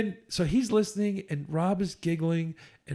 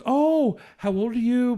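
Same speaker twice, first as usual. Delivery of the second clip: high, bright-eyed imitation of a chatty woman; lightly playing her gushing question; mock woman's voice; 7 semitones higher, 5 dB louder, slower than usual. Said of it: "And she goes".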